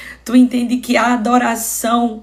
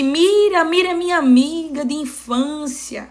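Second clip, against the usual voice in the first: imitating an old friend's recognition, higher pitch; pleased recognition; 4 semitones higher than usual. Blind man hears his childhood friend's name, acted pleased recognition. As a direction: lift and stretch the first name, lightly acted.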